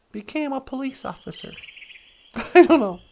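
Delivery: ordinary talk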